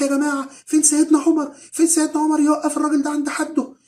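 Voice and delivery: put-on high, loud outraged child's cry; retold screaming. Small boy shouting at a bully in the street, loud and high. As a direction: yell it out to the whole street in protest. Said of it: "وقعد يصرخ".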